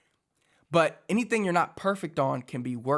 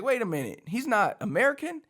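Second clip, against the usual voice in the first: surprised; 8 semitones higher than usual. Retold or imitated. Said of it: "and I was like".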